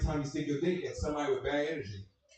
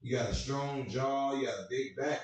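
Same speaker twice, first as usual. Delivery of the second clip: imitating dad. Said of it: "I was like".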